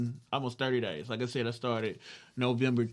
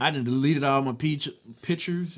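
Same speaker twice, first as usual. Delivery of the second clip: speech muffled by braces; talking around new braces; 3 semitones higher, 4 dB louder than usual. Real, not acted. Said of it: "I can't talk with these braces today".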